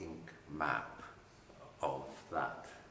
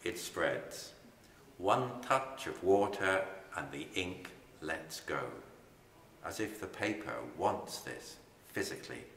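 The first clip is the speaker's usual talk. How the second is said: poem reading. Acted. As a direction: let each line settle before the next. Poet reads the stain poem.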